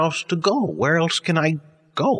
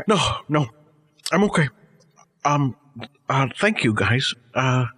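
crying on the phone. Acted. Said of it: "Frank, are you crying?".

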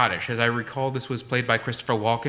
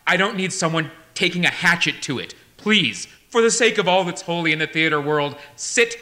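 loud, raised-pitch scolding; exasperated tirade; 4 semitones higher, 4 dB louder than usual. Acted. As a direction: berate a hopeless auditioner loudly. Exasperated director berates the singer.

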